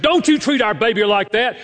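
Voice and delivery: high, urgent scolding; retold angry protest. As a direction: act out a mother's indignant outburst. Retold mother protecting her baby.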